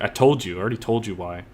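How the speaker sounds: condescending, dropping off at the end; scornful inner voice; talking down. Shown as a demonstration. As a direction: talk down to her like she should know. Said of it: "it's talking down to her".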